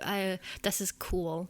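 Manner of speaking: slow, English-accented German. Shown as a demonstration. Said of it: "if I said it in an English accent".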